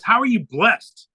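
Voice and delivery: slow, drawn-out puzzled question. Retold or imitated. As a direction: ask it slowly, as if you can't follow. Doctor's puzzled question, first ask.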